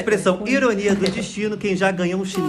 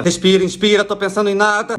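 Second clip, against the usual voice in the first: strained meditation mantra; 2 semitones lower than usual. Acted. Trying to meditate over the announcer.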